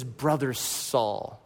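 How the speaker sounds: soft, slow, tender greeting. Retold or imitated. Ananias gently greets Saul, slow and tender. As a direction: say it gently like embracing a brother.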